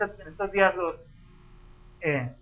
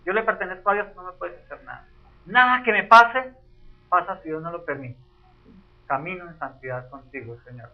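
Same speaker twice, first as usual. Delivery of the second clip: calm prayer. Shown as a demonstration. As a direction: pray it calmly, firm and trusting. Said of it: "¿qué le tengo que decir?".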